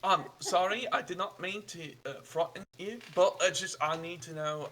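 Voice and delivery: put-on a slipped, wrong foreign accent on I need to know; the traveler's accent drifting off. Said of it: "wrong accent, sorry".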